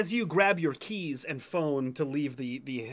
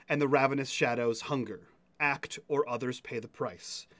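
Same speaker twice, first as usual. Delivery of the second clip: ominous reading. Acted. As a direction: read it like a warning from fate. Reads cryptic text message.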